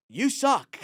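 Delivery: high, laughing "You suck"; mock heckler. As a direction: jeer at the comic through a laugh.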